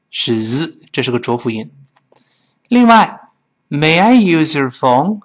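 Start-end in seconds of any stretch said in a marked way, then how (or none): 3.7-5.2 slow, each word separate; slow teacher model; slow careful reading. Shown as a demonstration. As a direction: read it slowly for learners. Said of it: "我们慢慢读是这么来说的".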